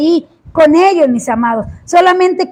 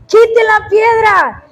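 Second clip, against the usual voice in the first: slow, higher shouted order; emphatic command; 4 semitones higher, much slower than usual. Retold or imitated. Pastor commanding the sister to remove the stone, slow shout. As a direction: hammer quite out slowly, shouting. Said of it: "hasta que le dije".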